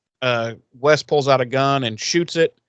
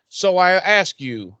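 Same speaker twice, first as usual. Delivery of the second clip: mock polite villain; 6 semitones higher than usual. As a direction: stall him with fake politeness. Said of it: "so he, he's like".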